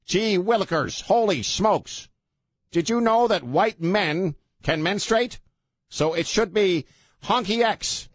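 high, gee-whiz mock white guy. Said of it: "let me use my white guy voice".

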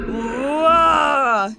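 loud roaring bear cry; a furious bear bellowing a wordless roar; bear's roar. Acted. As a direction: let out a savage bear roar. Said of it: "he roared".

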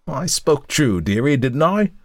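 high wheedling whine; old woman fishing for praise; whined. A narrator's reading. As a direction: whine for approval like a crone. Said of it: "whined the woman".

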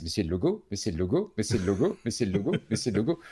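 same rising tune on every repeat; mild mock astonishment, each repeat lifting at the end; repeated realization. Acting out a viewer spotting brand after brand, repeated realization. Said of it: "et tu réalises".

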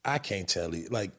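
low, very soft retold pleading; helpless protest. Player retelling his reply to an angry teammate, hushed helpless protest. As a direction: drop right down, low and under the voice.

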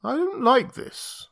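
high, slow, uneasy voice. Acted. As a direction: say it slowly with dread. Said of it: "he said slowly".

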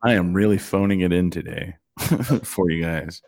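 tired hungover voice. Real, not acted. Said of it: "I'm a little hungover".

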